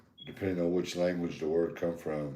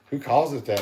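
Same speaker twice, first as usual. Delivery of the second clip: mock wife; 8 semitones higher, 6 dB louder than usual. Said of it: "She's like".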